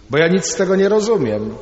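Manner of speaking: a pupil shouting his answer at the rabbi; still shouting. Retold or imitated. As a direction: insist loudly, like a stubborn child.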